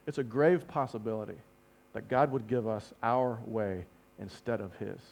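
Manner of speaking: low, soft, measured warning; grave repetition. Shown as a demonstration. Preacher repeats what scares him, gravely. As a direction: say it gravely, dropping pitch and volume. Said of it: "Let me say that again".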